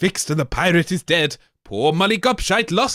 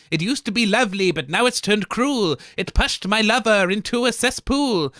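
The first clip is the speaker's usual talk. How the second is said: Molly Gobshite; 3 semitones higher than usual. Acted. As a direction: fret about the robot to the heroes. Molly Gobshite pleads to heroes.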